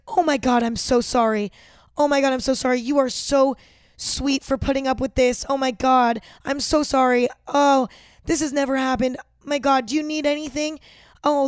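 overdone sugary sorry-sorry-sorry; mock gushing apology. Flight attendant fawning over a spill victim, gushing mock apology.

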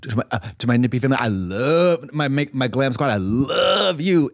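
milk each thank-you like a star; lightly voiced gushing speech; mock acceptance speech. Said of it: "She's like".

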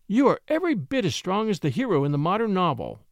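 happy and admiring. Acted. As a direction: praise him happily. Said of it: "she said happily".

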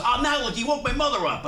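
high, flustered mock whine; aggrieved complaint. Prank victim whose mother just woke, aggrieved complaint. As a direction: imitate a man blaming the caller.

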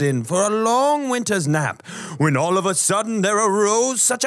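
storybook Christmas poem reading; poem recitation. Acted.

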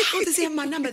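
high laughing question, unable to believe it; laughing disbelief. Retold or imitated. Wondering how the radio host got his number, laughing. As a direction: laugh through the words in disbelief.

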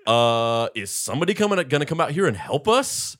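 high, loud plea for help; hammed-up helpless customer voice; mock calling for help. Retelling a confused customer, high mock call.

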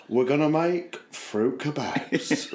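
slow, lightly voiced Cockney John; mock Cockney John plan; imitating Cockney John. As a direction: drawl it out like your mate John. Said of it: "He was like".

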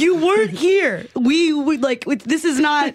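mildly indignant pushback, retold; indignant retort. Traveler challenging a woman who cut the airport line, indignant.

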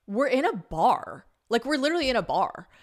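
mock-outraged, stretching the key words; indignant protest. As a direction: protest to a friend, incredulous. Retold indignant remark to friend.

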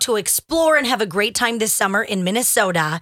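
upbeat insurance ad read. Acted. Host reading an insurance ad to listeners, upbeat ad read. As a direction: sell it like a radio spot.

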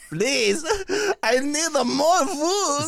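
high, slow, pleading whine; high slow baby beg; begging baby voice. Pretend. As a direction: beg for food like a tiny starving baby. Voicing unborn baby begging.

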